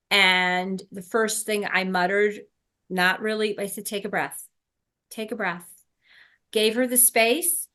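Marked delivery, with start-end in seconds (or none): 3.9-5.7 calm. Retold or imitated. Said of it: "I became very calm".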